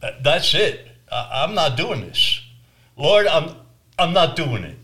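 fed-up outburst. Retold or imitated. Preacher telling the Lord he quits, fed up and loud. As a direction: snap that you're done. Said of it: "I said".

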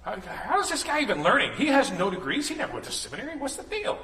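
lightly hammed-up doubter scoffing; mock skeptic. Skeptics in the crowd mocking Jesus, scoffing. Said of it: "Others like".

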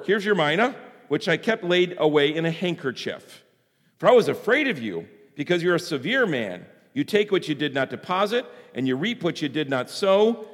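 measured reading of a parable; formal read-aloud with deliberate phrasing; scripture reading. A narrator's reading.

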